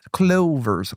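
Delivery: a touch of put-on Irish accent; mock Irish accent; Irish warm-up. Shown as a demonstration. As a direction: find an Irish accent on one word. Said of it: "I have to do Irish to get to Scottish".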